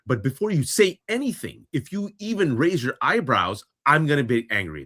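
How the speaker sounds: retold mom. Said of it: "So the mom says".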